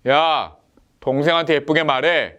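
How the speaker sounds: a sharp "야" then a falling command on "말해."; a mild mock scolding, "동생한테" pressed; stern order. Father sternly orders the older son to be nice. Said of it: "이 번".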